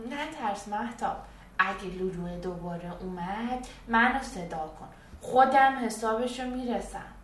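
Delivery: brave teddy. Acted. Teddy promises Mahtab he will beat the monster, lightly brave. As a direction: promise to fight the monster for her.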